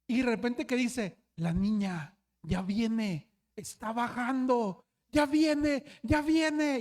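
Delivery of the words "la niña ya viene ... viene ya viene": building to a desperate yell. Retold or imitated. Sleepwalker panics, yelling to the youth group that it is coming. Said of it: "empezó a gritar desesperado".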